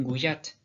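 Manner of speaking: "gouillate" with a y glide. Retold or imitated. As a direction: say "gouillate" with western Gascon J. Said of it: "J'ai déjà entendu les deux".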